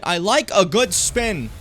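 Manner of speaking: slow, stiff talking-toy line; mock toy voice. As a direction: read it like a cheap toy speaking. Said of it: "You just start using it".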